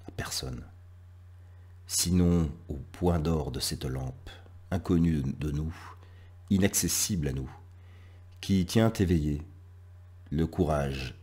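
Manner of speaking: measured poetry reading, long pauses between phrases; lecture de poème. Acted. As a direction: recite line by line, letting each phrase hang. (lecture poétique posée, avec de longs silences)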